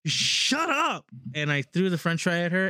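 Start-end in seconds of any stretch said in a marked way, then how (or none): 0.1-1.1 high-pitched mock snap; retold snap. Teen snapping at mom over girlfriend, high mock retort. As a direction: fling it back like a teen.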